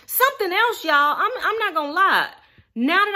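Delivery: high, laughing admission; giggly confession. Real, not acted. Laughing while telling viewers she's hooked on new foods.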